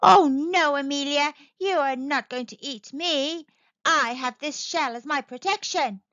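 a hint of a small fish standing up to a shark; defiant little fish.

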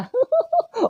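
short high laugh. Real, not acted. Gamer laughing at her own diarrhoea joke, high laugh. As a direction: squeak out a quick laugh.

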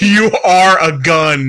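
slow, spaced-out robot proclamation; hammed-up, ponderous robot voice; mock giant robot. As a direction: intone it like a huge movie robot. Spoofs the Iron Giant's line.

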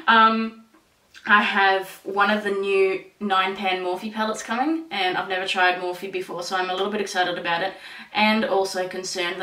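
fingers against lips; muffled behind hand; hand over mouth. Real, not acted. Seen 1: Fingers cover then rest on lips/chin; sheet mask also worn.

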